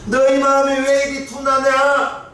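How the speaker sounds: high, slow, drawn-out reproach; exasperated lament. Retold or imitated. Jesus chiding disciples who still don't understand, exasperated lament. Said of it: "이렇게 탄식하시는 거예요".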